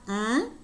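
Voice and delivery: "mm" hummed high as a velar NG; velar NG sound. Shown as a demonstration. Teacher introducing the velar nasal, "mm" as NG. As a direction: say "mm" from the back of the tongue, like sing's ending. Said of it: "which is the voiced velar nasal".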